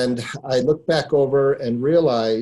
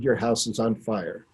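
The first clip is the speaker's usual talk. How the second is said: low, soft and steady, a calm retelling; calm, hushed warning to the homeowner; calmly; 3 semitones lower, 5 dB quieter than usual. Retold or imitated. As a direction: quietly state the danger without panic. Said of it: "calmly, I said".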